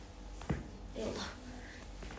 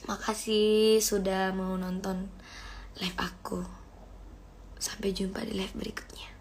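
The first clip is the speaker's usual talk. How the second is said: nodding off; 4 semitones lower, 9 dB quieter than usual. Real, not acted. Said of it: "aku udah ngantuk banget".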